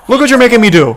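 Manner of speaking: high, loud whiny mockery of the driver. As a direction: play the tantrum-throwing driver, whining. Mocking the driver in the clip.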